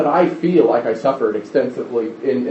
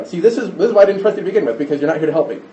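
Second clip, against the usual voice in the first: quick, mildly indignant complaint; acted accusation, tumbling out fast; accusing attitude; 3 semitones higher, faster than usual. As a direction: rattle off the blame, easing down by the end. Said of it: "that's the attitude".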